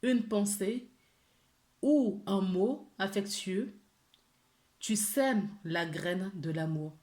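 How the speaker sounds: gentle, measured reading of an angel card message, partly slowed. Acted. Tarot reader reads the angels' message to viewers, gently and measured.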